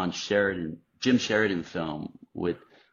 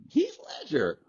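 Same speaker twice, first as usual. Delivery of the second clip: high imitation of Toby; 14 semitones higher than usual.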